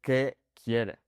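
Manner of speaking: restrained, polite workplace question; measured formal address at work; formal, to someone at work. Shown as a demonstration. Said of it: "speaking to someone at my work".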